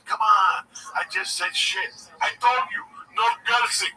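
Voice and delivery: heated retold squabble; acted arguing. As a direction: argue it back and forth, loudly. Acted argument on stage.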